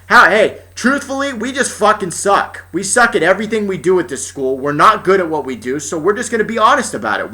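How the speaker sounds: high, hammed-up school staff confession; mocking imagined staff voice; mock honest school. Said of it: "you're just like".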